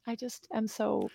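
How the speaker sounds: soft, halting swoon. Real, not acted. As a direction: let the voice sink, overcome with fondness. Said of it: "you're swooning over there".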